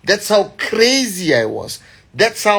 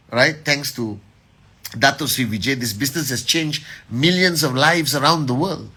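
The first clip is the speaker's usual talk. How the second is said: ordinary talk, nothing marked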